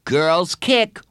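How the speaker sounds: high, loud schoolboy warning; emphatic kid's caution. A narrator's reading. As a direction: warn your friend, punching both words. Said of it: "warned Bradley".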